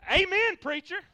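loud, high amen to himself; hammed-up call of amen; self-amen shout. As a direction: cheer himself on like the congregation. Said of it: "I'll just amen myself on that one".

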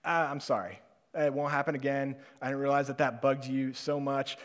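apologizing meekly to the angry neighbor; gentle apology. Pretend. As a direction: swallow the anger and apologize kindly. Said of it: "and to just say".

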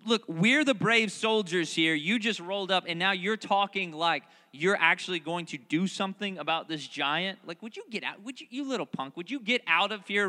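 mock scolding, loud and high; annoyed big brother. Eliab telling David to get out, loud annoyed scolding. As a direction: brush off the little brother. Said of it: "he's asking".

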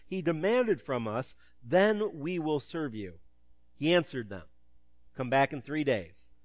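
steady, measured Bible reading; scripture reading. Acted. Pastor reading First Kings to the church, measured and clear. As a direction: read the passage out clearly, like a lector. Reads scripture aloud to congregation.

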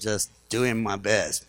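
low, slow, deadpan husband; lightly voiced henpecked husband; meek husband. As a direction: mumble it like a beaten husband. Husband answers meekly.

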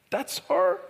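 mildly astonished question; stunned disbelief. Retold or imitated. Youth leader looking at the healed girl, stunned disbelief. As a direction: ask it haltingly, struggling to believe it.

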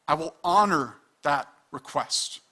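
a hint of God speaking, calm and final; lightly voiced God granting the sinner's wish; voicing God. Pastor voicing God to the rebel, calm and final. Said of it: "God is gonna be like".

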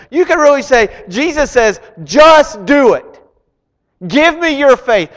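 loud, high, driving sermon voice; preaching at full force. Acted. Preacher rallying the congregation with Jesus' slogan, fired up. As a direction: build the crowd up, pressing hard.

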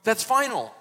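high, loud, firm refusal from a worried dad; stern father forbidding. Retold or imitated. Dad refusing to send Benjamin to Egypt, high and loud. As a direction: lay down the law like an anxious father. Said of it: "the dad, is like".

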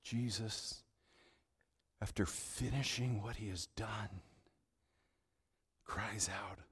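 hushed whisper; storyteller whispering the climax; whispered narration. Acted. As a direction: lean in and whisper it. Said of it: "unvoiced whisper".

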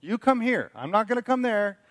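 light imitation of a parent hollering back; lazy parent. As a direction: play the lazy dad refusing to get up. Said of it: "what most parents ... say".

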